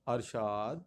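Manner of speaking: ارشاد as "ar-shaad", a first; pronunciation option. Shown as a demonstration. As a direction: say ارشاد with "ar" and a rising end. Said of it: "اس کا کیا بنے گا".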